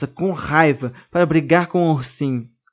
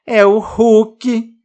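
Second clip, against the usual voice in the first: high, loud, slow startled cry; frightened; 8 semitones higher, 9 dB louder, much slower than usual. A narrator's reading. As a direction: gasp it out in fear. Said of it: "a boneca diz assustada".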